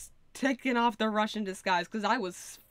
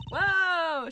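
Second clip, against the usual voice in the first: loud, higher stunned whoa; amazed whoa; 9 semitones higher, 5 dB louder than usual. Real, not acted. Streamer gaping at the new look, loud amazed whoa. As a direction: gasp it out in awe. Reacting to witness reveal.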